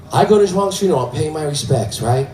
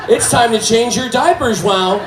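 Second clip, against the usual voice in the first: higher sing-song caregiver voice; raised-pitch nurse talk; 6 semitones higher than usual. Retold or imitated. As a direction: imitate a nurse chiding a patient. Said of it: "She's like".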